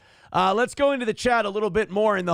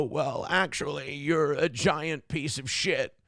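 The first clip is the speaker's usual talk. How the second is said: slow, lightly lowered retort; mock comeback; slower than usual. Mocking an official's blunt comeback, slow calm retort. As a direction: drop the insult slowly and calmly. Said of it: "they go back and they go".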